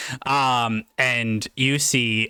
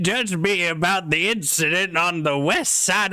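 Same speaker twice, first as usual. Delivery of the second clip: higher-pitched pirate merchant; 5 semitones higher than usual. Acted. Pirate stallkeeper defends himself over an old incident, pirate voice. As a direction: protest like an affronted pirate. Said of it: "this guy talks like a pirate".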